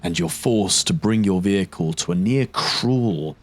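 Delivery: game master scene setting; slow, scene-setting narration. Acted. GM describes the scene.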